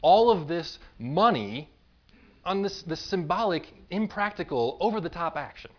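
acted scolding, slow and emphatic at first; mock indignant telling-off; mild scolding. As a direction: scold her with measured indignation. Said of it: "they're scolding her".

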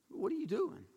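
soft, acted disbelief; stunned. King confronting the prophet who blessed his enemies, quietly stunned.

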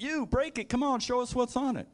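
playacted high voice, well above normal; high-pitched mock urging. Creation urging God to break the seal, high mock voice. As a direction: urge them on in a squeaky-high voice.

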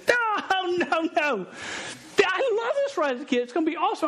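a pushy, gushing wife who won't take no; insistent wife. Retold or imitated. Wife to husband, overruling him: high, fast and gushing. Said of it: "wife's reply in retold scene".

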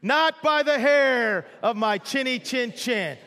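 slow, defiant little pig. Acted. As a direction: draw it out like a stubborn little piggy. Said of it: "And the little piggy said".

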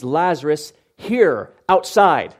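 short, firm orders, word by word; plain command. Acted. Preacher renders the Greek as Jesus' bare order, plain command. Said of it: "This is just a command".

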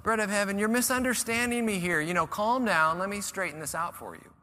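a hint of a flustered Jesus calming the crowd; soothing backpedal. Preacher imagines Jesus calming the crowd, mock placating. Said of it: "he could have so easily gone".

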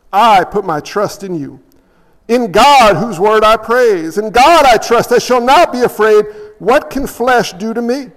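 declaimed psalm with weighty phrase endings; scripture reading. A narrator's reading. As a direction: read the psalm out firmly to the congregation. Reads the psalm aloud.

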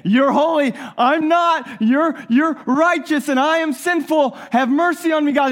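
a sinner calling out for mercy; fervent cry. Retold or imitated. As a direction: cry out to God. Voicing a worshipper's cry.

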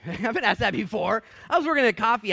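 real laugh through the line. Real, not acted. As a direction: break into a laugh on it. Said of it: "It's not funny".

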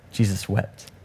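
low, soft and grave; hushed, solemn. Real, not acted. Preacher pausing over Jesus weeping, hushed and solemn. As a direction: let the short verse fall quietly.

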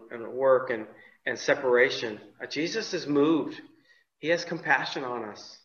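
ordinary delivery

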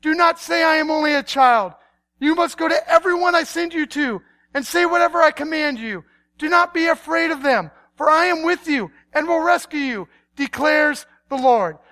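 emphatic, ringing proclamation; forceful preacher reading aloud; commanding scripture reading. Acted. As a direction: declare it as God's firm command. God's command, read out grandly.

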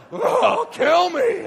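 gasp, then high, loud mock plea; hammed-up shriek of a suffering gadget; anguished Kindle. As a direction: wail it like a tormented machine. Voices overworked Kindle begging.

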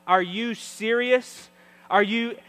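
loud, slow disbelieving cry; imitating a mother's alarmed outburst; mom freaking out. Mom reacting to forgotten suitcase, loud mock alarm. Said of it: "And then my mom goes".

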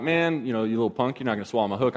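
low, soft scolding mutter at a fish; talking to a fish. Retold or imitated. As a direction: grumble softly at a little punk of a fish. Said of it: "I talk to my fish sometimes".

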